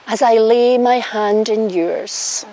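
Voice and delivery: slow, solemn vow reading; officiant vows. Shown as a demonstration. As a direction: lead the vow line by line. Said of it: "repeat after me".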